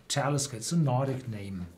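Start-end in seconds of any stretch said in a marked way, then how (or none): 0.1-0.6 TAL-isker, weight on the opening syllable; first-syllable stress. Shown as a demonstration. Explaining a distillery's name, stress on TAL in Talisker. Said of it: "pronounced on the first syllable".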